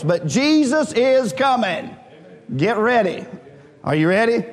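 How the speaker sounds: high, ringing preacher's delivery; stirring pulpit proclamation; fervent preaching. Real, not acted. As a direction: proclaim it with rising urgency, drawing out key words. Preaching builds in pitch.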